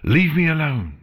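high, loud angry cry; snarled. Acted. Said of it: "she snarled".

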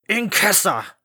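loud stern call; calling out loudly. Acted. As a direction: bellow the name across the house. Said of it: "His voice rumbled loudly through the wooden frame".

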